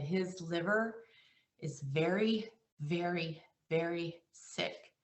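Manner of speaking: choked-up quiet. Real, not acted. Agent retelling the doctor's verdict, softly emotional. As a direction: let the words sink, barely holding it together. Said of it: "it makes me emotional talking about it".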